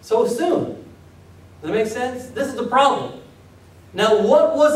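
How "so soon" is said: slow, higher, half laughing disbelief; laughing mock disbelief; incredulous Paul. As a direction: ask how they strayed so fast. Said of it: "And he says".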